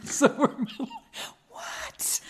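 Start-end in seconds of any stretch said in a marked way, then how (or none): 1.5-2.2 high squeaked whispery what; mock disbelief. Host joking about being middle-aged, mock-shocked squeak.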